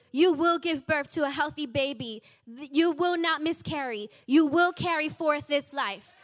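firm declaration. Retold or imitated. Pastor on the phone declaring to a scared mom, firm and loud.

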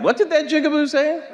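a lightly voiced gruff old president from the grave; Andrew Jackson voice. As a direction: toss it off as Jackson's ghost, half-laughing. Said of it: "Andrew Jackson replied".

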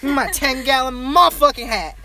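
high, loud hollering cowboy; shouted mock cowboy rant; hammed-up Texan cowboy. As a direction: whoop it up like a cartoon Texan. Acts over-the-top Texas cowboy.

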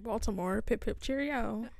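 Baltimore as a joking British caricature; mock British accent. Teasing co-host about Baltimore speech, mock British accent. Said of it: "have a British accent".

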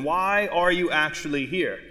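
"why" leaned on, then a slow fall to "here"; stress on why. Shown as a demonstration. Preacher pressing congregation, heavy on "why". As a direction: press "why" and let it settle. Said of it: "a million different ways".

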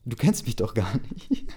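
mock-indignant retort with a rising end. Teller mocks the intruder's excuse, in a mock-indignant tone. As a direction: sneer at it as a weak excuse. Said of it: "Ja, gutes Gegenargument".

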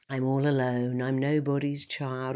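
sad song. Retold or imitated. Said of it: "Do you sing".

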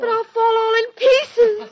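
high, loud panicked wail; panicky. Acted. Terrified of falling apart.

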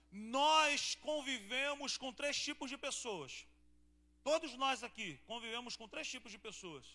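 emphatic preaching. Acted. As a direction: announce it to the congregation with weight. Emphatic sermon announcement.

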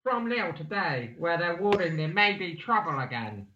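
lightly voiced Cockney reading; mock Cockney script read; Cockney accent. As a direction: keep up the amateur Cockney. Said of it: "And then Apples comes in again".

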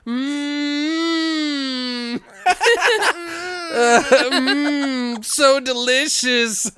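high squealing laugh through words. Real, not acted. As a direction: crack up mid-line. Laughing, voiced.

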